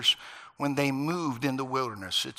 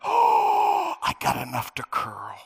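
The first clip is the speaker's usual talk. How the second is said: put-on kid's delight; 5 dB louder, slower than usual. Boy delighted in class.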